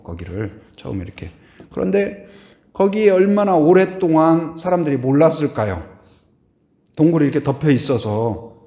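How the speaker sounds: ordinary talk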